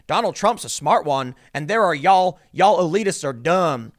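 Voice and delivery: retelling a pundit's Southern accent mockery. Vlogger retelling how Wilson mocked Trump voters, mock Southern accent. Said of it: "he broke out into a Southern accent".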